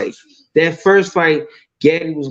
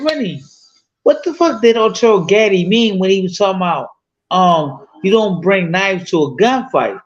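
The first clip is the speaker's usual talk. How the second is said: higher, puzzled voice asking his best friend; retold baffled question; 4 semitones higher than usual. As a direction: act out being lost and confused, pitch up. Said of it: "I'm like".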